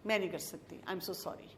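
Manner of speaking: quiet, low, tired-sounding refusal; soft apology. Retold or imitated. Mother telling teen she can't talk now, quiet and apologetic. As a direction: let it drop to almost nothing, gently.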